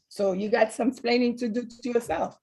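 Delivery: put-on light Cuban Spanish accent; a hint of a Spanish accent, TV husband; Ricky Ricardo Spanish accent. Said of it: "in his Spanish accent".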